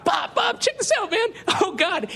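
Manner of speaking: high, gleeful nudge to a friend, laughing; gleeful whisper to Bob. Retold or imitated. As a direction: pull your buddy in to watch the trainwreck. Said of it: "I'm like".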